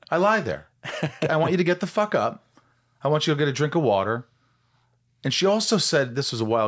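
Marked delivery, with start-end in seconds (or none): 0.1-4.3 higher, laughing firm orders; laughing, mock-stern therapist. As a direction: quote the therapist through laughter. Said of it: "my therapist actually said".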